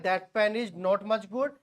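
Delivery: mnemonic said slowly; slow recitation. Shown as a demonstration. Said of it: "क्या याद करना है".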